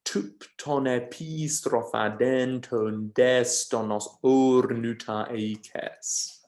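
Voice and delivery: reading the line slowly, beat by beat; scanned line. Shown as a demonstration. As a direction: lean on each metrical foot, slow. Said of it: "So that gives us the whole line".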